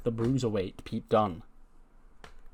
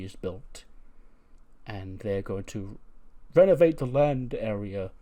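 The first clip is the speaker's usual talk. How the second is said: formal spokesman; 2 semitones lower, slower than usual. Acted. Voices Keith's formal announcement.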